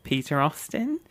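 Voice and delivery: imitated nervous schoolboy; timid child. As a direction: answer meekly, rising at the end. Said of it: "And I went".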